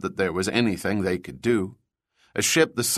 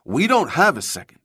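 sharp, higher-pitched retort; 6 semitones higher, 3 dB louder than usual. A narrator's reading. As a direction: cut him off sharply, pitch jumping up. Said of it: "Juan's tone was sharp".

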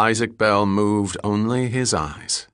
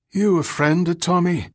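high-pitched, suspicious derelict; Billy Collins; 9 semitones higher than usual. A narrator's reading. Ragged man sniffing a sandwich questions the stranger, high and suspicious. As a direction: ask it high and addled.

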